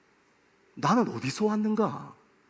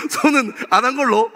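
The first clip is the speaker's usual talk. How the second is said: normal talking voice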